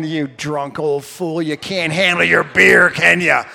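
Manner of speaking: mock redneck jeer. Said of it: "rednecks are driving by me going".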